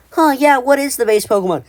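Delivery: high-pitched wondering viewer voice; curious viewer. Acted. Imagined viewer asking about the base Pokemon, curious. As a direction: wonder aloud, pitched well up. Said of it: "Which may be like".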